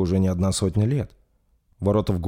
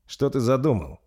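worried; 5 semitones higher than usual. Acted. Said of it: "обеспокоенно спросил Рольф".

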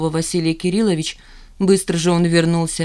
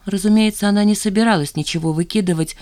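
ordinary delivery

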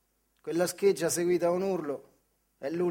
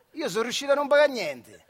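laughing boast; 6 semitones higher, 5 dB louder than usual. Acted. Boasting punchline through laughter.

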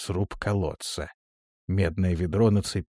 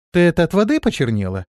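fast, loud, higher tactless question; a lightly played cheeky demon girl; blunt; 8 semitones higher, 7 dB louder, faster than usual. A narrator's reading. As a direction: blurt it out without manners. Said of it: "спросила она бесцеремонно".

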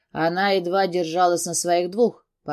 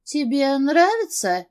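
slow, higher, moaning tease; soft moan; 7 semitones higher, 3 dB louder, slower than usual. A narrator's reading. Beatrice teasing her boss, slow moaning voice. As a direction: breathe it out teasingly. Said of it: "тихо простонала Беатрис".

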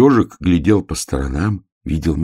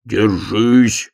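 shout; 6 semitones higher, 5 dB louder than usual. Acted. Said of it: "крикнул медвежонок".

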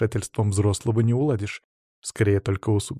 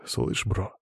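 soft, calm undertone; hushed whisper; 3 semitones lower, 7 dB quieter than usual. A narrator's reading. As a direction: say it low-key to a friend. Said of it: "прошептал самый спокойный".

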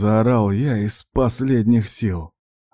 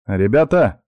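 firm, slightly raised call; resolute call; 2 semitones higher, 4 dB louder, slower than usual. Acted. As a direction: call out to get their attention. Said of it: "решительно позвал я".

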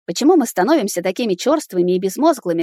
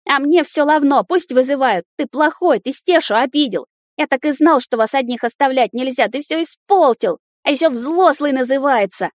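put-on a boy hurling accusations; child yelling; 6 semitones higher than usual. A narrator's reading. An outraged son yells at his father for ruining everything. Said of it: "Вопит пацан".

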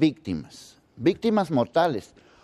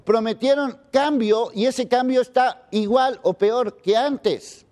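indignant; 4 semitones higher than usual. Real, not acted. Anchor's angry editorial demands.

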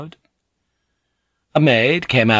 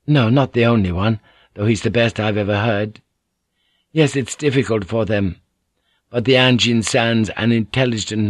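Mariko's voice; 3 semitones higher than usual. Acted.

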